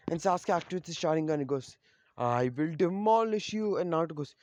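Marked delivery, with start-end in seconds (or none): 2.2-3.8 higher, slow, drawn-out threat; battle threat. Acted. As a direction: act out a vow to crush the opponent. Sasuke threatens in acted fight.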